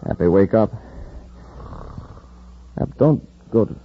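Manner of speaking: urgent calling out. Acted. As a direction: shake him awake with your voice. Calling a fainting comrade.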